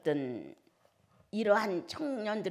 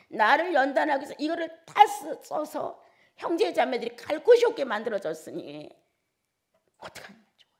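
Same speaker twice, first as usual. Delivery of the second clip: higher, louder grieving plea; retold tearful outcry; 7 semitones higher, 9 dB louder than usual. Preacher retells crying harder over lost family home, raised. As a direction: cry it out to the Lord in renewed grief. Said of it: "막 더 엉엉 울었어요".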